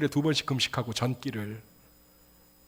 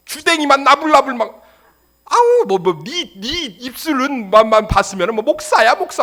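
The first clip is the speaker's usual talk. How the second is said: loud, high, sarcastic jeering; hammed-up sneering outburst; mocking parent; 9 semitones higher, 12 dB louder than usual. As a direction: belittle the child with exaggerated scorn. Sneering parent belittles child's new faith.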